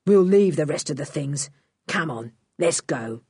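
a gruff crook hurrying off; low gruff thief. A narrator's reading. Dan telling Lou they should leave, low and gruff.

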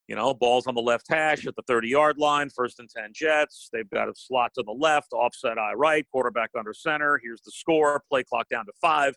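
brisk radio call of the field; radio play-by-play. Shown as a demonstration. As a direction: set the scene like a radio announcer. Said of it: "I'm saying all of those things and have to".

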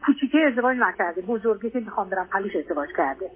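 normal talking voice

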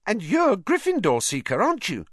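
put-on high boyish wonder; awed. A narrator's reading. Colin realises Harry is the Seeker, in awe. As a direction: marvel at your hero. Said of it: "said Colin in awe".

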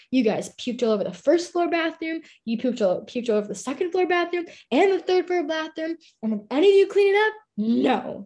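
mildly hammed-up rant about the puke; mock angry house mom.

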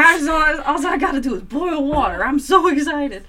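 high, loud giddy squeal through laughter; giddy excitement. Retold or imitated. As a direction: squeal with delight over instant potatoes. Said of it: "I got real, real excited".

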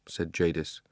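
ordinary delivery, nothing marked

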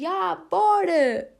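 high, slow, drawn-out cool granny; cool old lady. Pretend. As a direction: stretch it out like a hip old lady. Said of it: "ser aquela velhota que diz".

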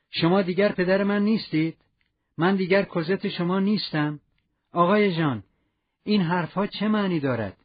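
mildly voiced upset girl; lightly voiced hurt young woman. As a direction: Cosette protesting to the father she loves. Narrator voices Cosette's distress.

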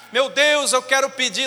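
earnest prayer. Retold or imitated. Believer kneels to pray.

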